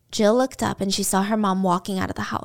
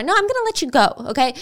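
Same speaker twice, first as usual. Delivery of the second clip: promising; 3 semitones higher than usual. Retold or imitated. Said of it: "he's promising her".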